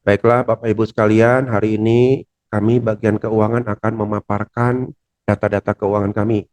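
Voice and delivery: flat, droning and low, like a lullaby; monotone presentation that puts people to sleep. Shown as a demonstration. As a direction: read it dully so the room gets sleepy.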